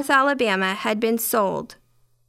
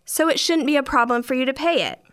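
a touch of sugary sweetness, higher; sweet, polite jab; sweetly; 4 semitones higher than usual. Retold or imitated. Cashier to rude customer, sweetly polite. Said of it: "said sweetly".

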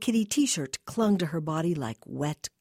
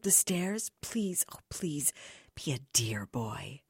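soft pleading. Acted. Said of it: "in a soft, pleading voice".

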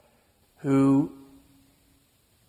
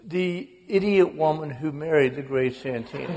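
laughing punchline. Real, not acted. Writer naming mother's imagined book title, laughing.

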